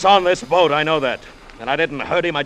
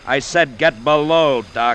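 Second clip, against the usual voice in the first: slow, louder command; angry order; 4 dB louder, much slower than usual. Acted. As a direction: spell out the order, menacing. Felix orders the doctor.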